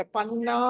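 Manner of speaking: పన్నా held on its last vowel; long final "naa". Shown as a demonstration. Teacher correcting where the dirgham goes, పన్నా with long "naa". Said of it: "నా దగ్గర పెట్టుకోమన్నా".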